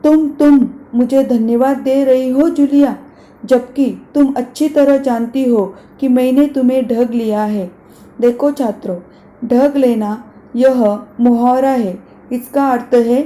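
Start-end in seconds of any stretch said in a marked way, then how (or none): 0.0-7.7 near shout. Acted. Master scolding the governess for thanking him, near shout. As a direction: let the anger burst, almost shouting. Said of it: "ऊंचे स्वर में लगभग चिल्लाते हुए".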